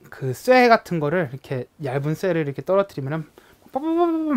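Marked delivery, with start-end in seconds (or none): 3.7-4.4 clanging metal imitation. Shown as a demonstration. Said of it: "막 이런 소리 나죠".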